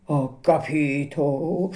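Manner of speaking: slow, strained attempt at a laugh; forced laugh. A narrator's reading. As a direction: force a nervous chuckle. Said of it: "sforzandosi di ridere". (risata forzata e nervosa)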